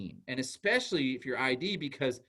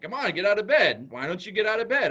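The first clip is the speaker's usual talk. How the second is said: put-on nagging older brother; 4 semitones higher, 6 dB louder than usual. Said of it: "And I'm like".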